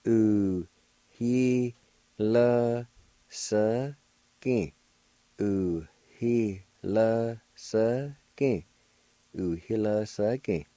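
careful teaching model; faint H. Shown as a demonstration. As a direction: model the Cherokee word with a faint H sound. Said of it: "there's a faint H sound like this".

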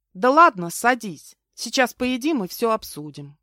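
friendly, lifted reassurance; warm, smiling. A narrator's reading. Host reassuring an apologetic guest, warm. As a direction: put the guest at ease with a smile. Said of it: "тепло улыбнулась я".

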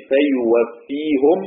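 فيوفيهم slow, ending in -hu-m; فيوفيهُم ببطء; Ruways reading, damma on ha. Shown as a demonstration. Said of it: "رويس".

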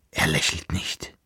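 soft, low hushed denial; whisper. A narrator's reading. The girl answering the emperor, softly whispered. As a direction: barely voice it, afraid. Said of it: "flüsterte sie".

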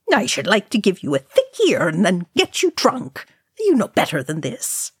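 a hint of a grumpy old dwarf; gruff scolding. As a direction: scold him gruffly, half fond. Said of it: "before scowling".

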